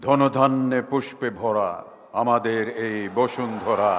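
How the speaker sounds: measured recital of patriotic Bengali verse; declaimed verse, letting each couplet fall away at the end; poem recitation. Acted. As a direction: recite it line by line, pausing between phrases. Recites popular song as verse.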